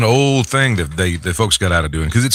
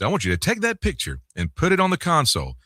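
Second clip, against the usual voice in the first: higher, softer boss voice; imitated station manager; 7 semitones higher, 6 dB quieter than usual. Manager advising young host about a photo, imitated boss voice. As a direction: instruct like the old GM, in his way of talking. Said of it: "that's how he talked".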